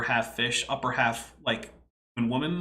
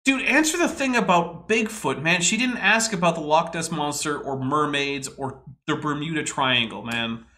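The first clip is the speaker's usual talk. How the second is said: real annoyance. Real, not acted. Viewer complaining at a speaker dodging the Bigfoot question, annoyed. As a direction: demand a straight answer, fed up. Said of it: "this is annoying".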